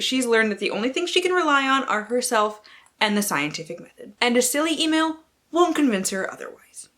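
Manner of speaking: a lightly heightened blurb read; dramatic reading. Acted. Booktuber reading a romance synopsis to viewers, dramatic. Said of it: "I will be doing dramatic readings".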